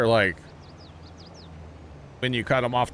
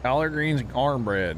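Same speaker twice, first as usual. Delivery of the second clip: a light Southern twang on the words; 3 semitones higher than usual. Shown as a demonstration. Streamer to chat, in a light Southern twang. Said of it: "I put the twang too".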